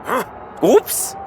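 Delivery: playful taunting. Acted. Balder teases brother in game.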